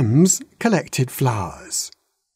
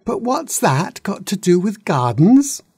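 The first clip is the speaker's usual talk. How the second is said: put-on baby dragon; 8 semitones higher than usual. A narrator's reading. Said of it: "said the baby dragon".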